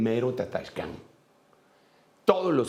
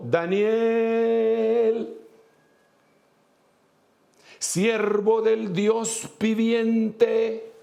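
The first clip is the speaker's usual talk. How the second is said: anguished cry; 10 semitones higher, much slower than usual. Retold or imitated. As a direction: call down into the pit, desperate for an answer. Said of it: "con voz angustiada, le gritó".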